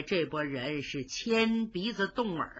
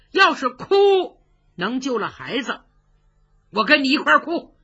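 gruff scolding; 2 semitones higher, 6 dB louder than usual. Acted. Old lord scolds weeping women.

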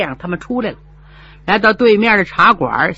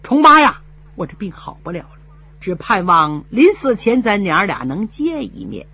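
put-on weak old mother. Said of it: "哭罢多时说".

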